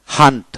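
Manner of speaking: "হান্ট" said with an a vowel; u not pronounced. Shown as a demonstration. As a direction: model "হান্ট" with a in place of u. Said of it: "ইউ উচ্চারিত হবে না".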